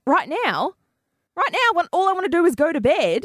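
high, incredulous mock protest; retold exasperation. Tired girlfriend objects to the detour, retold exasperation. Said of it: "list of names I was angry at".

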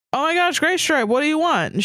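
high-pitched, lightly yelped character line; mild yelp. A narrator's reading. Fanfic heroine asks what Graystripe wants, mock yelp. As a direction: read it as a squealy little yelp. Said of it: "she yelped".

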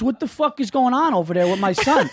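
high-pitched mock outrage; indignant dad. Son imitates dad complaining to the principal, indignant. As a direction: imitate a dad demanding answers. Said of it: "So I called the principal".

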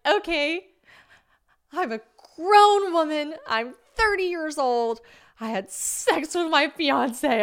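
high, slow, prissy self-justifying voice; huffy put-on voice; justifying herself in her head, prissily; mock defensive.

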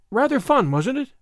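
high, forced cheer; desperate effort at chat. A narrator's reading. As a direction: break the awkward silence with strained lightness. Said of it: "made a desperate effort".

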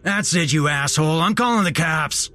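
high-pitched irate outburst; furious manager. A narrator's reading. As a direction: threaten him at the end of your patience, pitch up. Manager threatens to call police.

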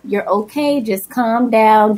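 calm her down gently; lightly voiced soothing husband; reassuring. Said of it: "he's like".

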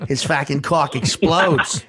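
laughing, hammed-up Boston accent. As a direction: do a rough Boston guy, laughing. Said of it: "that's me doing a Boston accent".

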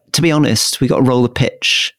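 light Essex-Hertfordshire accent impression; a hint of an Estuary-accented politician; lightly imitated Estuary accent; Priti Patel. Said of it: "she's sort of like".

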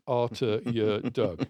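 "arter your dug", dialect vowels spelt out slowly; Findon dialect spelling. Shown as a demonstration. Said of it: "it was spelt".

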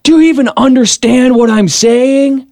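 mock the opponent's insult; retold condescending jab; taunting question. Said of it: "and then he goes".

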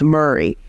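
"Murray" for Mary, centralized vowel before R; DC pronunciation. Shown as a demonstration. Linguist showing the local Mary vowel. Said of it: "something like Mary, in this area becomes Murray".

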